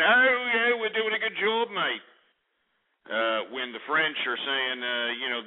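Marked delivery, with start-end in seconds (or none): 0.0-2.0 lampoon the self-satisfied general; mocking NATO general. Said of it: "is saying".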